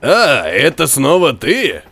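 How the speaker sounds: slow, hoarse, surprised; surprised rasp. Acted. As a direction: croak it in surprise. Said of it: "удивлённо прохрипел".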